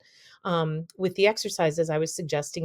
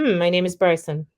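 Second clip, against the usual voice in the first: natural pitch demo; 4 dB louder than usual. Shown as a demonstration. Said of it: "So say".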